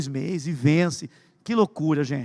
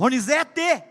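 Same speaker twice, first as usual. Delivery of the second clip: mother calling; 7 semitones higher, much slower than usual. Retold or imitated. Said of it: "só minha mãe que falava".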